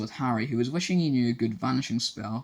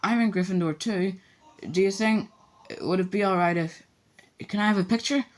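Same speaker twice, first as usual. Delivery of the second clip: put-on eager boy; 8 semitones higher than usual. A narrator's reading. Voices eager young Colin.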